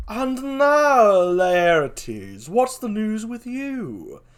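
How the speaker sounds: high, drawn-out regal greeting; grand royal address. Acted. King turning to Laertes for news, grandly drawn out. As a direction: sing out the question like a king.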